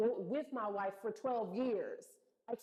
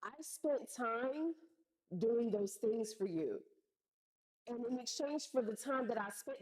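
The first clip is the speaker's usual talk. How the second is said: calm firm explanation. Retold or imitated. Retelling the call to mom, spoken calmly. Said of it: "I'm gonna say this calmly".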